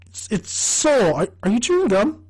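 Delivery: high, nagging imitation; high irritated voice. Charlie scolding, high.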